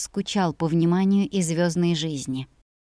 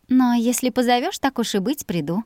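innocent flirting; 5 semitones higher than usual. Acted. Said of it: "с невинной улыбочкой добавила".

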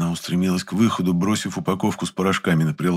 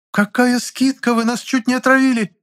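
indignant outrage; 5 dB louder than usual. Acted. Outraged customer.

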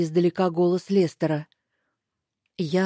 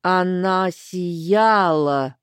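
whispered; 3 dB louder, much slower than usual. Acted. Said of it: "прошептала она".

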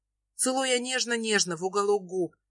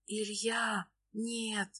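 much softer, breathy refusal; whisper; 10 dB quieter, much slower than usual. A narrator's reading. Nastya refusing Ilya, a hushed whisper. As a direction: push him away in a whisper. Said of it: "Шепчу я".

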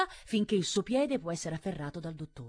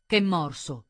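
loud, abrupt challenge; angry cry of disbelief; shouted; 8 dB louder, slower than usual. A narrator's reading. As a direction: shout it back as two short questions. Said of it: "gridò".

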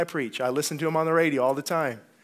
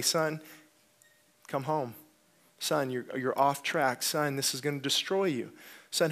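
loving father. Retold or imitated. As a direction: call a son home gently. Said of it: "a loving father would say".

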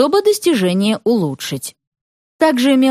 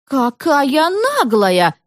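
very slow, high scornful cry; woman shouting after the girl; indignant remark; 5 semitones higher, much slower than usual. A narrator's reading. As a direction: drawl out the outrage. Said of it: "донеслось ей вслед".

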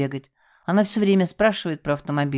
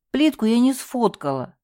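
sobbing; 7 semitones higher than usual. A narrator's reading. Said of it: "всхлипнула портье".

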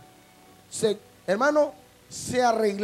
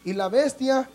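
slow, weighty Bible reading; solemn scripture reading. Acted. Pastor reading Revelation to the congregation, slow and solemn. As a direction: read each phrase slow and grave. Reads Revelation aloud slowly.

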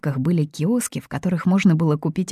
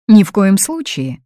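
louder, slow, leaning on НИ; firm refusal; 4 semitones higher, 7 dB louder than usual. A narrator's reading. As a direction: flatly forbid it, word by word. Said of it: "заявила Фатини".

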